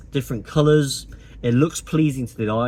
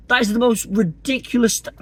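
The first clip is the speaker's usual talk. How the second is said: higher and breaking into laughter mid-sentence; cracking up; 9 semitones higher, 3 dB louder than usual. Real, not acted. Vlogger failing to keep a straight face, laughing. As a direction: try to say it straight but crack up. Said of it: "I can't say it with a straight face".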